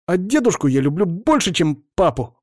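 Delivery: put-on blurted child. A narrator's reading. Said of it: "выпалил Димка".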